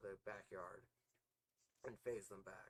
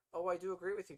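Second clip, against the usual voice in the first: gleeful demon; 9 semitones higher, 9 dB louder, faster than usual. A narrator's reading. Demon's mocking reply to Damien.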